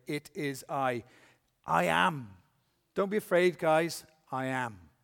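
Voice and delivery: firm and emphatic, every word weighted. Shown as a demonstration. Preacher voicing Jesus to the frightened disciples, emphatic. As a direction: declare who you are with full weight. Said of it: "he says it in a very emphatic way".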